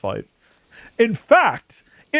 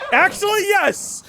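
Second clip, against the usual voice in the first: surprised; 13 semitones higher than usual. Real, not acted. Surprised success on the roof.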